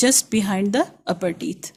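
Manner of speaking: very slow, each word set apart; a teacher's slow repeat; slow deliberate repeat. Shown as a demonstration. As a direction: spell the rule out slowly. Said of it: "repeating the rule slowly".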